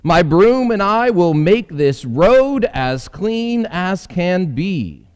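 high, eager little housefly voice. Acted. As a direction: chirp it out like a busy housefly. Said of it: "said the housefly".

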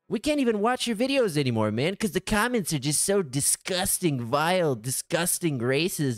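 mock exasperated fan complaining; complaining viewer. Viewers complaining about comments.

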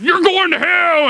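high, drawn-out hollering; mock hellfire yell. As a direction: holler it like an over-the-top hellfire preacher. Mocking youth group hell preaching.

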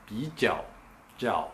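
ピーチャオ, then チャオ alone, both with チャオ in a dipping third tone; Beijing ピーチャオ. Shown as a demonstration. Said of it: "三声で発音しちゃうんですよ".

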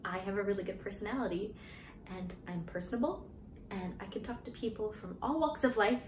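building from earnest pitch to desperate plea; pleading. Retold or imitated. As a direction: sell yourself harder and harder. Pleading her case in retold interview.

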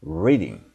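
"Reading" slowly, R made with tongue off the palate; careful English R. Shown as a demonstration. Teacher encourages learners to try, careful R in "Reading". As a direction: model "Reading" with a confident English R. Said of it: "천천히".

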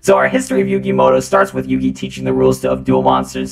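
deep, loud voice-changer robot. Acted. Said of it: "I'm gonna be using a robot voice".

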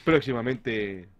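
mock trailer announcer.

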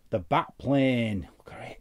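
ordinary delivery

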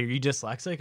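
straight-faced retold question; imitating a deadpan driver. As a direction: ask it dead seriously, without a wink. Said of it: "like, real deadpan".

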